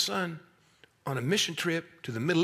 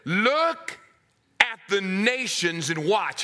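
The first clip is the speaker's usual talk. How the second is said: a hint of a booming God, slowed on the second line; lightly voiced Lord commanding the prophet; 3 semitones higher, 4 dB louder, slower than usual.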